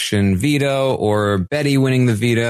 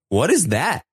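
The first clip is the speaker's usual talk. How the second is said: higher-pitched imitation of confused viewers; mock bafflement; 6 semitones higher than usual. Viewers in the streamer's chat asking, mock bafflement. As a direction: ask it as a puzzled onlooker, pitched up.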